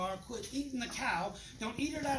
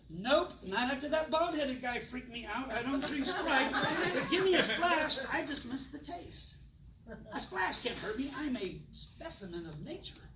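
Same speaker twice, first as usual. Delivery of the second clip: playful health nut; 2 semitones higher, slower than usual. Acted. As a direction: tease it out slowly like a sheepish health fanatic. Playing a health-nut guest.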